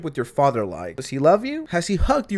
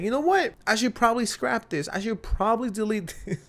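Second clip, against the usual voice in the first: mock creator; 6 semitones higher than usual. Mocking the TikTok creator.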